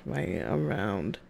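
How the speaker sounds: slow, quiet, low-pitched sample; low character pitch. Shown as a demonstration. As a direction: drop right down and stretch it out. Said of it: "a little bit low".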